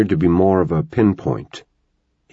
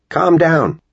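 much higher, louder yell; yelled back; 11 semitones higher, 4 dB louder than usual. A narrator's reading. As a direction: shout back across the field. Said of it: "Connor yelled back".

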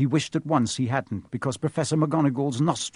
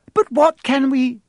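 cut-off gasp; 12 semitones higher, 8 dB louder, slower than usual. Acted. Hermione cut off by Snape.

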